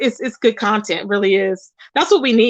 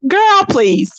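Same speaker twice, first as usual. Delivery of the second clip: exasperated; 4 semitones higher than usual. Real, not acted. Dismissing Velvet's excuse.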